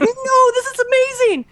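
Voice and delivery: high, bright delighted protest; imitating a giddy friend; thrilled insistence. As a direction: gush as if handed a gift. Quoting the thrilled artist.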